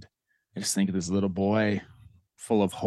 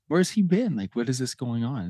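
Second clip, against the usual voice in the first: indignant; 5 semitones higher than usual. Retold or imitated. Boy's resentful inner voice.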